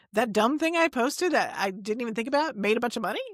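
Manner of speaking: lightly acted incredulous question; mildly astonished, as if voicing someone else; mock disbelief. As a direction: imitate a newcomer whose mind is blown, ending on rising questions. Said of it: "it's gonna blow people's mind".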